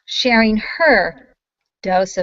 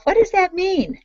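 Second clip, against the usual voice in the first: laughing host asking her guest; laughing question; 12 semitones higher than usual. Real, not acted.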